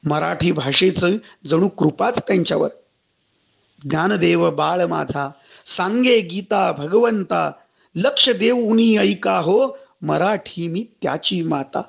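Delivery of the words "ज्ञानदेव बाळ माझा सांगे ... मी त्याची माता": slow verse with drawn-out vowels; devotional verse recital. Acted. Preacher quoting Marathi as a mother, slow verse recitation. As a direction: draw out each line of the verse.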